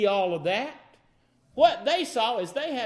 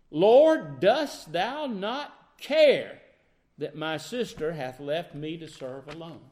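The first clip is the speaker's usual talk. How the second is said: scolding complaint; 4 semitones lower, slower than usual. Acted. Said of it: "Can you hear the scolding?".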